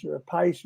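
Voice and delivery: "a Pice" rhyming with ice; pronounced "a Pice". Retold or imitated. Singer listing the drummer's names, "a Pice" rhyming with ice. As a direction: say Pice with a long i. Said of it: "all these different names".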